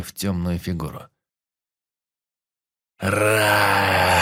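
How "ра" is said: loud monstrous roar; monster roar. Acted. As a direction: roar with jaws wide open. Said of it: "завопило чудовище".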